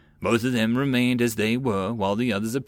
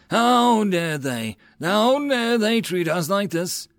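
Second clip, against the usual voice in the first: slow, high, indignant fury; a young lord raging over an insult; outraged; 9 semitones higher, 3 dB louder, slower than usual. A narrator's reading. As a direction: lean hard into each how dare they. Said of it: "paced angrily".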